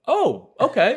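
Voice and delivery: squeaky high amused agreement; telling a friend how he played along; high laughing "oh okay". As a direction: laugh it out, disbelieving. Laughing reply while retelling.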